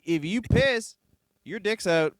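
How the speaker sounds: lightly voiced hillbilly giving tips; hint of a porch-sitting yokel; mock redneck advice.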